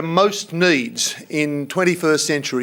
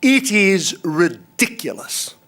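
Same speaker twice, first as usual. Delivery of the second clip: slow, earnest and a touch higher, pressing each phrase; passionate plea; 4 semitones higher than usual. Real, not acted. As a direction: let it boil over a little, but hold back. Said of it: "let me say this, and I mean it".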